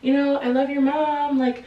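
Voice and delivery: fake-sweet society lady. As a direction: gossip dressed up as sympathy. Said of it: "she's like".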